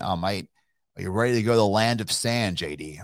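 put-on light Australian accent, mate said as "mite". Partner calls about Abu Dhabi, light mock Australian accent. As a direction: lightly imitate an Aussie business partner. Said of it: "Australian, Australian".

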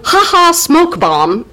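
high, slow mock-cackling exit line; gleeful witches. Witches vanishing in a puff, high drawn-out glee. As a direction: draw it out with theatrical glee. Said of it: "The witches sort of go".

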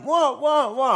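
imitating the director asking what favour he means; Shimmy voice. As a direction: ape your mate's eager questioning. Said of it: "That's my little Shimmy impersonation".

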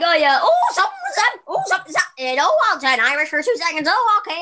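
put-on jokey Irish accent, jumping high; high-pitched teasing Irish impression; mock Irish. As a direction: put on a playful Irish lilt. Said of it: "someone's just like".

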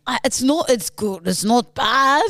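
amateur Scottish protest; put-on Scottish accent. Podcaster defending the attempt, amateur Scottish. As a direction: argue back in attempted Scottish. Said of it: "this is not a bad Scottish accent".

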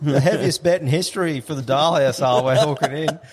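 high, hyped-up race talk; excited hype. Retold or imitated. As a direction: ride the buzz of the big bet. Retelling the big race hype.

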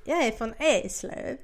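slow, badly faked Scanian accent; skånska attempt. Shown as a demonstration. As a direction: copy a line in clumsy Scanian Swedish. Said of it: "Båda är ju lika dåliga". (trevande härmad skånska)

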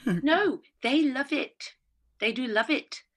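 lively mock-insistent northern English accent; put-on regional accent. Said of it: "Is don't use accents".

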